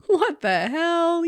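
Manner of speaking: laughing disbelief. Retold or imitated. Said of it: "and thought, like".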